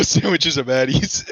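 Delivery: giggling through the words; laughing. Real, not acted. Laughing at the clip name.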